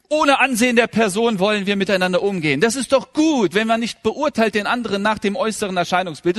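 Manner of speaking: rising pulpit fervor; fervent preaching. Acted. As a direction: preach it with full force to the congregation. Preaching at full force.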